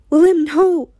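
high, desperate protest; alarmed cry. A narrator's reading. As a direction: cry out to stop him. Desperate plea during the cutting.

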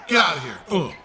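loud, high burst at the game; real yell. Real, not acted. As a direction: yell it out sharply mid-game. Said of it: "Sorry if I'm yelling".

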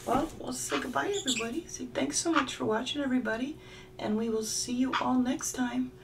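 put-on high, cheery baby-talk goodbye; high pet-voice sign-off to the viewers; sing-song sign-off. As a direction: say goodbye for the bird, high and sweet.

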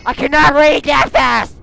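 loud protest at the game; calling out. Real, not acted. Gamer shouting at fast game text, loud protest.

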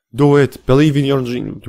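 playful motivational shout; mock cheering. Cheering on a player's jump.

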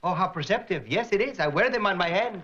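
lightly voiced comic traveler; turbaned traveler from India. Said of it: "A smiling barefoot gentleman wearing a turban".

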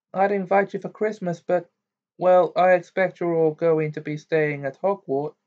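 a hint of a chatty mum; Mrs Weasley.

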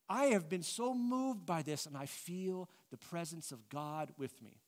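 mock-earnest spiritual gushing; deeply moved. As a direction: play someone moved by the divine. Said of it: "You ever heard people talk like this".

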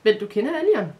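loud, abrupt cut-in; interrupting. A narrator's reading. Girl cuts the boy off mid-ramble, interrupting. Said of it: "afbrød Maja ham".

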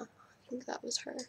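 hushed whisper after realizing grandma answered. Real, not acted. Caught on the phone with grandma, whispering. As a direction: breathe it out so the phone can't hear.

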